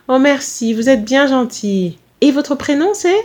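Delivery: polite, lilting maternal gratitude; grateful mother. Acted. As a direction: thank a helpful youngster sweetly. Mother thanks girl sweetly.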